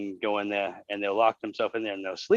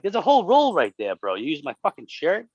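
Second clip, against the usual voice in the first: indignant yell; 4 semitones higher, 3 dB louder than usual. Retold or imitated. Yelling at the shirt thief.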